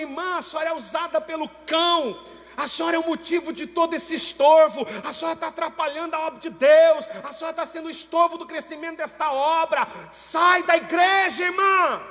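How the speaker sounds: high, loud accusing shout; scolding pastor shouting a member out of the church; harsh pastor shouting. Retold or imitated. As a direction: rebuke her in front of the church. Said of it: "o pastor veio e falou pra mim, falou assim".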